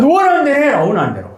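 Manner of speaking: high, playful "suit yourself" delivery; hammed-up defiance; mock defiant retort. Acting the retort he wanted to give.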